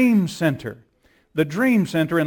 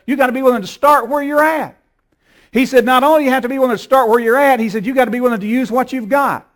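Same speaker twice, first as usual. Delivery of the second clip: rising preaching shout; 7 semitones higher, 4 dB louder, faster than usual. Acted. Preacher quotes Matthew with rising force.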